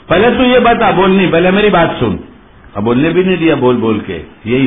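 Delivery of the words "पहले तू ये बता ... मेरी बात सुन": mildly cross, high-pitched interruption; annoyed. Acted. Girlfriend won't let boyfriend speak, annoyed. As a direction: cut him off with acted impatience. Acted quarrel, girlfriend cuts him off.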